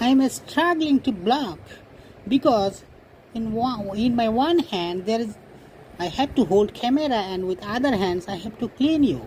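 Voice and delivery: slow, high, put-on English speech; courtly gentleman addressing a cat; mock grand English. Vlogger serenading his cat Pinky in slow mock English.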